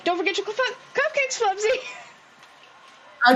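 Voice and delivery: high, drawn-out reminder; Kettlestein calling out. Acted. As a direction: sing it out after someone, slowing down. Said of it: "Kettlestein would have been like".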